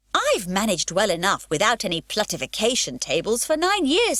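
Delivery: put-on cheeky little girl talking back; lightly voiced pert girl; Pippi's voice. Pippi retorts to policeman.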